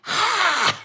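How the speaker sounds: sudden high, forceful open-mouthed "hah"; mimed exhale in someone's face. Retold or imitated. Hiker breathing an inch from woman's face, forceful "hah". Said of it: "I was going like this".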